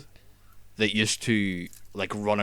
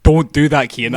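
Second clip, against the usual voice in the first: startled yell; 4 semitones higher, 12 dB louder than usual. Real, not acted. Startled by friend's jump scare.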